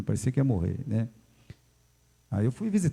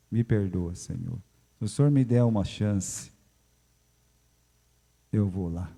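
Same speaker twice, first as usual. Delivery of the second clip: humble prayer; 3 semitones lower than usual. Pretend. Sermon turns to prayer.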